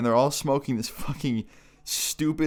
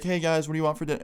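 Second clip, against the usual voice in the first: mom voice, pitched up and casual; cheery mom; 6 semitones higher, faster than usual. Retold or imitated. Mom walking in on the boys in the basement, cheery mom. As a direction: imitate a mom checking in on the kids.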